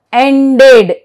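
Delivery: "ended" in two syllables, full "ded" ending; pronounced E. Shown as a demonstration. Teacher shows E after D, "ended" with full E. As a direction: sound the E clearly in "ended", as en-ded. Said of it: "but here it is pronounced".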